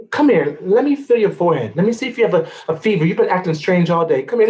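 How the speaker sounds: a mama who won't take no; insistent mama. Acted. Mother insists on feeling forehead.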